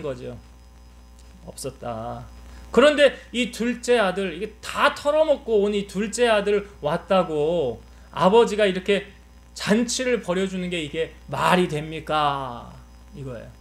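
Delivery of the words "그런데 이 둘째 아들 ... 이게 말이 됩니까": 동생 일을 어이없어하며 따지기; 아버지에게 항의하는 큰아들 연기. Acted. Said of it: "이 아들이 화낸 이유". (가볍게 분개한 항변)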